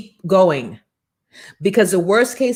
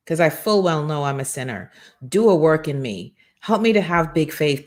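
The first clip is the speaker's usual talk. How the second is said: prayer. Shown as a demonstration. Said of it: "Call in the name of Jesus".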